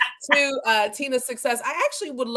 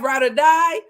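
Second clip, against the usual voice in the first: louder, punchy read; emphatic shout; 3 semitones higher, 5 dB louder than usual. Real, not acted. Emphatic shout reading Megan's comment. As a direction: land the catchphrase hard.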